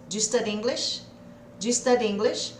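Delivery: "Do you study English?" run together as "J study English"; connected speech. Shown as a demonstration. Teacher modelling natural English question. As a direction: glide do you into a quick J. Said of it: "abrindo a boca e falando".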